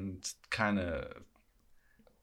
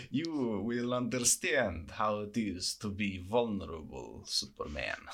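put-on Russian accent. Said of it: "Batman monologues with a Russian accent".

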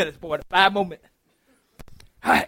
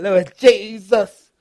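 mock crying prayer; much slower than usual. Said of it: "and I'm crying".

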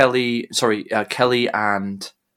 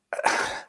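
dramatic sigh; 10 dB quieter than usual. Acted. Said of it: "He winces and sighs heavily".

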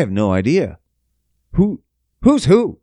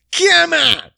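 high, louder hype call; loud come on; 14 semitones higher, 4 dB louder than usual. Shown as a demonstration. Host hyping the listeners with a high, loud come on. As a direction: pump the crowd up on come on.

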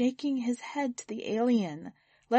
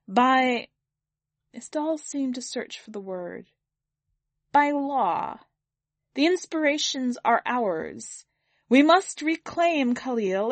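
higher, louder ceremonial alien address; alien orator; 4 semitones higher, 3 dB louder than usual. Acted. Alien benefactor opens speech to jeering mourners, grand address. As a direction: proclaim it to a hostile hall.

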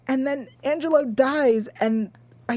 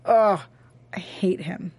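whispering. Real, not acted. Hissing contempt at a villain.

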